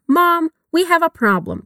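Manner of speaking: slow, clear teacher model line; slow model reading. Shown as a demonstration. Teacher modeling the line slowly for learners. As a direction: say it slowly so students can repeat. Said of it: "Vamos repetir?".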